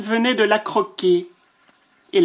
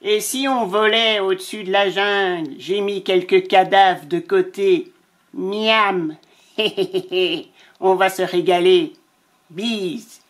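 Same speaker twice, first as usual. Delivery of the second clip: vulture's letter. Acted. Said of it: "le vautour poursuivit".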